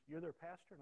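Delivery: loud, high incredulous question; retold challenge. Retold challenge from gang leader.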